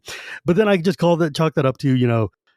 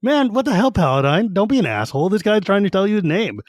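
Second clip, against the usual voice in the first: high indignant rant at Paladine; exasperated, calling him out; mock outrage; 6 semitones higher than usual. Reader scolds Fizban for snapping, high mock outrage. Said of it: "And I'm like".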